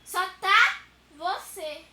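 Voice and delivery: teasing. Real, not acted. Teasing, drawn out.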